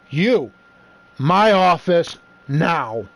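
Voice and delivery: slow, spaced-out authority command; measured, commanding mock-official delivery; imitated stern order. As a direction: play a vice principal ordering someone in, word by word. Vice principal orders culprit to office.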